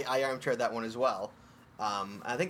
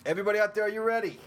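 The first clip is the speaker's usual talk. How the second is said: hype announcer; 7 semitones higher, 4 dB louder than usual. Acted. Hyping the audience for the segment.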